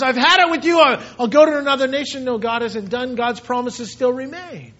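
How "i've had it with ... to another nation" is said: higher, louder, fed-up divine outburst; mock exasperated God. Preacher voicing an imagined angry God: exasperated outburst. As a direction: throw up your hands as a fed-up God.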